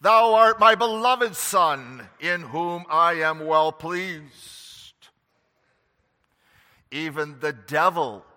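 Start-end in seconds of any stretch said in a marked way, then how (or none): 0.0-5.1 voice from heaven. Retold or imitated. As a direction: boom it out like God speaking from above. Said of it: "there came a voice from heaven saying".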